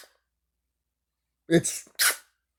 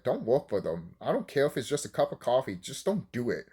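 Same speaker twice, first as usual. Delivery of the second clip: warning; 6 dB quieter than usual. Retold or imitated. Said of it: "they're like".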